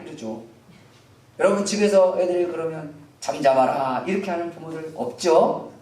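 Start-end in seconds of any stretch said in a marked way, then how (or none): 3.2-4.0 low, solemn mock parent; stately scriptural command, pitched low; lofty, refined. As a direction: play the impossibly dignified parent. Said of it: "굉장히 고급지게 써놨어요".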